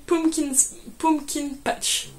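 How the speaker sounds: careful English colour name in a French accent. Real, not acted. Knitter trying English for the friend who mocked it, French accent. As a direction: attempt the English words with a real French accent. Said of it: "s'est un peu moquée de mon accent anglais".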